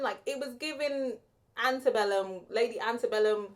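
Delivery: ordinary delivery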